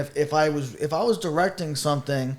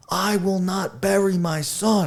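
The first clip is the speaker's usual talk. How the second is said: quoting Denzel; 4 semitones higher, slower than usual. Retold or imitated. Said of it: "when he walks into that hospital, he's like".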